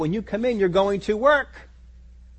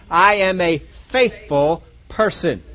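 mirror affirmation. Pretend. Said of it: "look at yourself in the mirror and say".

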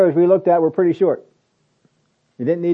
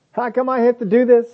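mock whine; 9 semitones higher than usual. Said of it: "Jesus doesn't whine and complain".

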